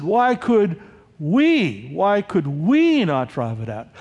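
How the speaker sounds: puzzled question hinging on "we"; stress on WE. Acted. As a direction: lean long on the word "we". Disciples question, hammering the word we.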